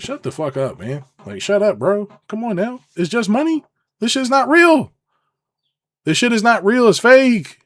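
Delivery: rising fed-up yell; exasperated outburst. Real, not acted. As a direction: blow off the nonsense loudly.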